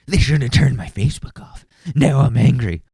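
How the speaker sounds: lightly voiced mocking imitation of the ranting trucker. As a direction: parrot him back to make fun of him. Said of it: "crackhead energy".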